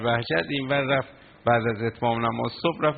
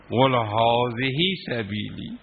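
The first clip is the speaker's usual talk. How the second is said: drawn-out recitation; much slower than usual. Acted. Cleric reciting verse again, slower.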